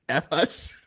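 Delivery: imitated French-accented "F us", the word "focus" squashed; French-Canadian "focus" that comes out as "F us". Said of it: "with his accent".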